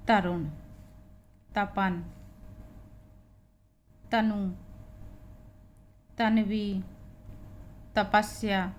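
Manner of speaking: तरुण, तपन, तनु, तन्वी, तपस्या each starting on dental "t"; ta demonstration. Shown as a demonstration. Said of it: "ता के लिए हम टी का ही". (तरुण, तपन, तनु, तन्वी, तपस्या: हर नाम 'त' से, रुक-रुककर)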